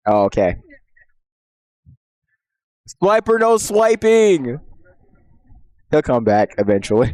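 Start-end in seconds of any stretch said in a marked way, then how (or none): 3.0-4.6 Dora voice. Pretend. Quoting Dora, slow.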